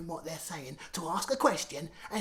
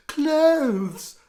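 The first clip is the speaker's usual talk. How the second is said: much louder, higher clothes; shouted; 10 semitones higher, 15 dB louder than usual. Acted. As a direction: shout it out eagerly. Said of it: "shouted gorgeous Gorinda".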